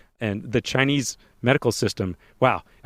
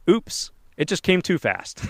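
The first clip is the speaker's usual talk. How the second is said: slow, higher, fake-innocent oops; mock innocent excuse; 7 semitones higher, slower than usual. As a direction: pretend it was an accident, slowly. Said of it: "went to the hospital and said".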